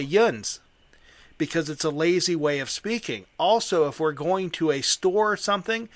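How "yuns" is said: Pittsburghese "yuns", one run-together syllable; Pittsburgh dialect. Shown as a demonstration. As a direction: say "yuns" as lazy local Pittsburgh slang. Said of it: "we say".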